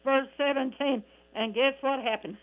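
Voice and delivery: fervent, rhythmic gospel preaching. Real, not acted. Radio preacher exhorting friends to accept Jesus, fervent preaching. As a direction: preach it in cadence, dotted with praise interjections.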